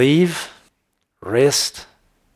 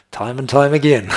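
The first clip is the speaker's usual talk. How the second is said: laughing; 3 semitones higher, 4 dB louder than usual. Real, not acted. Laughs at Israel's failures.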